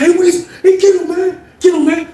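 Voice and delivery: high, loud urging shout; urgent call. Retold or imitated. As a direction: egg your friend on loudly. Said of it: "He was like".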